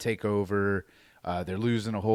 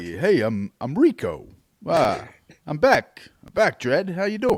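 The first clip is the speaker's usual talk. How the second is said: bad halting put-on voice, loud and swooping; 7 semitones higher, 7 dB louder than usual. Talking about a role Walken turned down, he plays Rico: worst Christopher Walken impression. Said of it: "worst Christopher Walken impression".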